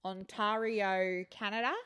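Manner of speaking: slow Aussie "Ontario", drawn out; Aussie accent. Pretend. Having another go at Ontario, slow Aussie accent. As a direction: draw the vowels out like an Aussie. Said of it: "Aussie accents are weird".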